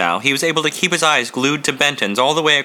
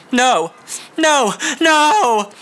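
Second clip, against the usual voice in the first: desperate shouts; 12 semitones higher, much slower than usual. Acted. Jack refusing, desperate.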